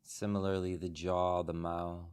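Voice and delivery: calm, unhurried meditation guide, long pauses between phrases; soothing body-scan delivery with room to breathe; guided meditation. Real, not acted. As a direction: guide the group gently into stillness, phrase by phrase. Leads a guided meditation after the bell.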